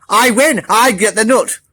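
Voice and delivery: high, eager claim; gleeful. Acted. Hedgehog claiming the nut, high and eager. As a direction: crow about winning.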